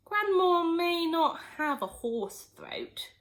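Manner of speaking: a playful hoarse croak; mock hoarse voice. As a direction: put on a hoarse throat for the joke. George mimics hoarse horse voice.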